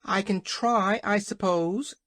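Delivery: high hen voice; reply lightly, pitched high; plucky hen. A narrator's reading. Hen answers the scornful King, undeterred. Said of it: "said Billina".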